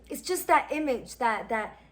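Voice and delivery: ordinary talk, nothing marked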